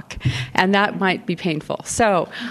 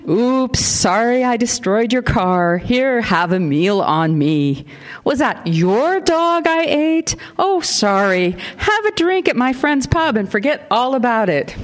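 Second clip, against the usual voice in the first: slow, drawn-out Boston mimicry with high swoops; exaggerated, singsong attempt at Boston, stretched out; mock Boston accent; 6 semitones higher, slower than usual. A narrator's reading. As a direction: tease with a badly faked Boston accent. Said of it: "added a touch of Boston to it".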